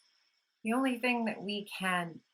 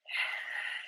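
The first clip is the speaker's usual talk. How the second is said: deep breath out. Shown as a demonstration. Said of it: "And take some deep breaths".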